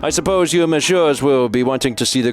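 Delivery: baron voice drifting from British to French to Russian; shifting accent. Acted. Baron helping the inspectors, accent slipping from British to French. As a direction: let the accent wander across Europe. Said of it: "start as Falcon's and then go to British and then French and then Russian".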